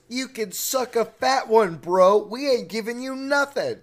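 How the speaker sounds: cocky bro. Retold or imitated. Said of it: "And Prince Jake goes".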